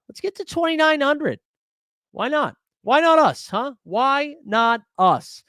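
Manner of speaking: high hype, last one drawn out slow; playful rally cry. Real, not acted. Streamer rallying chat for subs, slow drawn hype. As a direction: pump up the chat.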